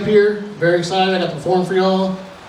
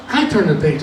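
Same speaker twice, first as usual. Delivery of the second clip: "I turn the page" dropped to usual pitch; copycat step. Acted. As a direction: let "page" fall, following along. He copies the others.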